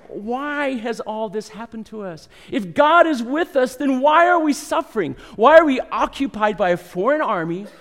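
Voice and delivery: complaining lament. Retold or imitated. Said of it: "a list of doubts and complaints".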